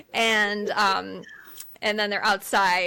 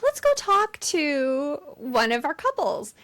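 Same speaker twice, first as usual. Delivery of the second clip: higher, slow on-air presenter voice; TV reporter; 6 semitones higher than usual. Retold or imitated. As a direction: imitate a reporter introducing a live segment. Imitates TV news reporter.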